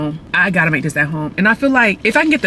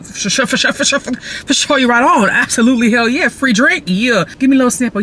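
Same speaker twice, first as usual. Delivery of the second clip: excited gushing; 5 semitones higher than usual. Retold or imitated. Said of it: "I said".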